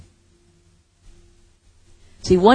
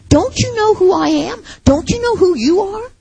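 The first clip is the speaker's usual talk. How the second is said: challenging repeat; 10 semitones higher than usual. Retold or imitated. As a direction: fling the question at them. Repeated louder, higher challenge.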